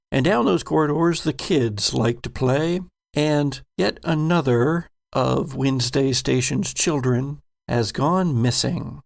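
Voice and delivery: measured game master narration; scene narration. Acted. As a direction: set the scene for the players.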